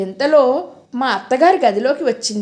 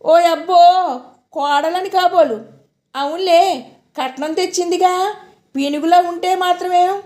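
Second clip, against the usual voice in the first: sneering; 6 semitones higher than usual. Acted. Sister-in-law sneers at bride.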